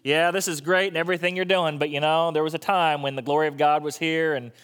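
a hint of a Southern accent, old-timer complaining. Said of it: "Why do I go into a southern accent".

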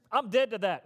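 loud, emphatic declaration with attitude; firm, punchy refusal; passionate. Shown as a demonstration. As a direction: say it with passion, not just volume. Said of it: "Did you notice the passion".

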